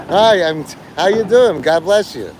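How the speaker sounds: bright, upbeat hello to a crowd; cheery greeting voice. Retold or imitated. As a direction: wave and greet everyone warmly. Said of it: "He's like that".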